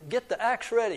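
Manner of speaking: mild shout from high up; a touch of storybook shouting. Acted. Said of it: "he shouted from the top".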